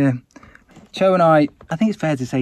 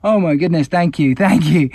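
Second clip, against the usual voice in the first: overwhelmed with relief, slowing on the thanks; Oh my goodness stretched out in relief; relieved exclamation; 5 semitones higher, 5 dB louder than usual. Retold or imitated. Relieved at meeting English speaker.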